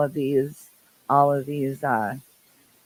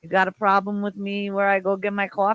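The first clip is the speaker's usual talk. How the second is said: put-on New York accent. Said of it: "The accent".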